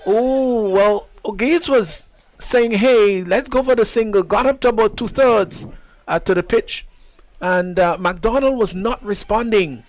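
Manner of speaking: suddenly high and loud, the commentary jumps on the run-out chance; excited live call. Real, not acted. Commentator shouting over a suicidal single, excited. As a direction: call the near run-out at full pitch, voice up and loud.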